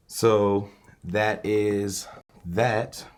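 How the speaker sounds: glitching robot. Real, not acted. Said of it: "sound like a broken robot".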